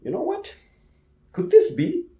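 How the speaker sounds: operator doubting the alarm, wondering aloud; Soviet operator thinking. Retold or imitated. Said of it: "was thinking to himself".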